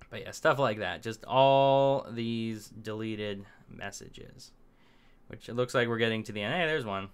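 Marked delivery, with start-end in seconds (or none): 1.0-4.5 very slow, stretched out, wry; drawn-out sarcasm. Acted. Vlogger sneering at all the deleted messages, very slow and wry. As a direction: savour each word with mock dismay. Mocking the site's deleted comments.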